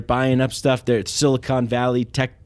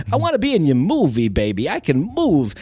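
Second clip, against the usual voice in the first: Christopher Walken. Retold or imitated. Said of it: "You gotta do it a little more pronounced".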